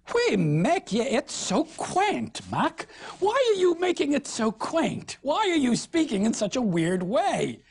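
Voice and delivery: rising, scornful northern shepherd; mock Mac's airs in broad northern speech; Northern Middle English. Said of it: "Good Northern speech here".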